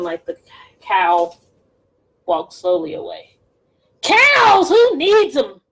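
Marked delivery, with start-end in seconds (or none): 4.0-5.6 witch murmur. Acted. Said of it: "Gritch murmured".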